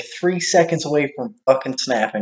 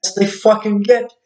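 gleeful spite; 8 semitones higher, 3 dB louder than usual. Retold or imitated. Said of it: "I'm like".

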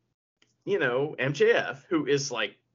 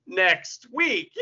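slow, louder, drawn-out hammy threat; mock wrestling promo; 4 semitones higher, 5 dB louder, slower than usual. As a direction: stretch it out like a cheesy wrestler cliffhanger. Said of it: "bad guys and good guys saying".

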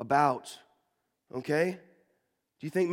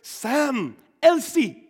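put-on high, bright children's Indian accent calling names; 10 semitones higher, 5 dB louder, much slower than usual. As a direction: call out the names like excited Indian kids. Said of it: "in the cutest Indian accents you've ever heard".

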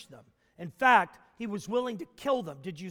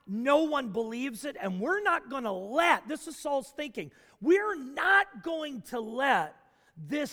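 loud, slowing defiant zealot; Saul's defiance; 3 dB louder than usual. Retold or imitated. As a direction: spit it out like a sure persecutor. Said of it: "He's like".

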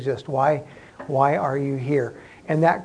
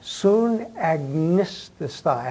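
"Sun agnisastai" drawn out very slowly, part by part; slow demonstration; 3 semitones higher, much slower than usual. Shown as a demonstration. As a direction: sound out the Greek "agnisastai" slowly with pauses. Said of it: "I'm gonna say it slowly".

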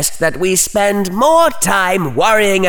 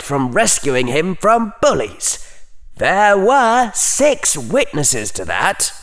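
coldly; 10 semitones higher than usual. A narrator's reading. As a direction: lecture him with icy scorn. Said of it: "said coldly".

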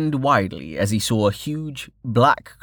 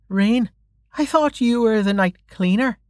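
high-pitched, questioning watch officer; puzzled officer; 12 semitones higher than usual. Acted. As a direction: question an acquaintance in a raised voice. Officer questions Rain about his identity.

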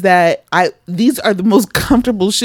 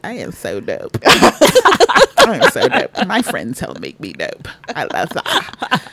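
self-hyping boast; slower than usual. Retold or imitated. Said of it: "I was like".

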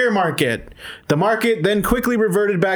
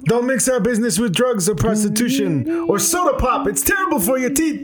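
Godfather impression; 5 semitones higher than usual. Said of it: "give me the, uh, Godfather theme".

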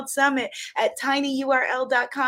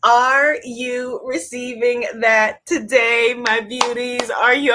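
holding back a shout; 6 dB louder, slower than usual. Real, not acted. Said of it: "I'm trying not to shout".

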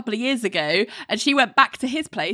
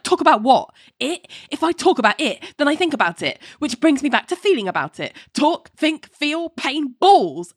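petulant; 6 semitones higher than usual. Retold or imitated. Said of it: "John petulantly is like".

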